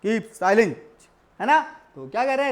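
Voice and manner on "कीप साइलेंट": a firm, stressed "कीप साइलेंट" like a teacher's order; stressed command. Retold or imitated. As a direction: give the order with weight on both words. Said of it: "इसे हमारे order देते हैं stress में". ("कीप साइलेंट" ज़ोर देकर आदेश की तरह)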